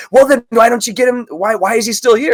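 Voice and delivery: high-pitched exasperated manager; imitated angry manager. Manager scolding employee over a waiting customer, mock exasperation. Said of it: "She's like".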